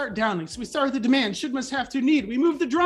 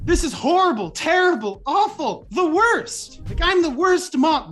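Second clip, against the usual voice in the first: hammed-up despair, higher and louder; mock dramatic; 4 semitones higher, 6 dB louder than usual. Shown as a demonstration. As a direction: overblown wail of doom. Dramatizing self-talk example.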